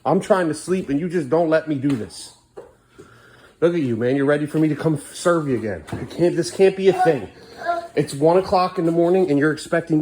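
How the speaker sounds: late-night frustrated dad voice; exasperated lecture. Real, not acted. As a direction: lecture him, worn out and irritated. Dad scolds son at 1 am.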